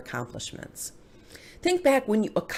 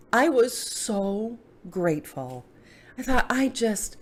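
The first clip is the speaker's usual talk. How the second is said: tearing up; 4 semitones higher, slower than usual. Real, not acted. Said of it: "I'm tearing up again".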